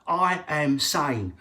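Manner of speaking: slow, strained crazed insistence; slow unhinged claim of sanity; mock madman. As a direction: drag it out like a lunatic trying to sound normal.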